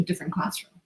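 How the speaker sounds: sudden soft whisper. Real, not acted. Coach to listeners, softly whispering the aside.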